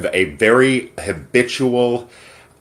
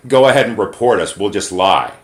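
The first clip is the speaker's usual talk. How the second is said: mock taunting. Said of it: "as if to gaslight her and say".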